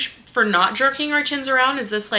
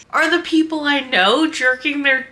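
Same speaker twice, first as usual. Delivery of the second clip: raised pitch, tipping into laughter; about to crack up; 4 semitones higher than usual. Real, not acted. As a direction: try to get it out before the laugh bursts. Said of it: "I'm laughing so hard".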